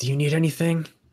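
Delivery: whispered voice. Voicing a character who turns to another character: whispering. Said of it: "He whispers that".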